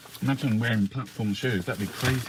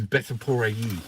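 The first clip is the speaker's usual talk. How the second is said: Spanish phrase. Shown as a demonstration. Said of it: "that's how you say it as well".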